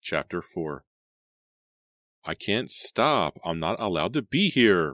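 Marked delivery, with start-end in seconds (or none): 2.2-4.9 high, drawn-out desperate cry; distressed cry. A narrator's reading. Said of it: "Randy cried".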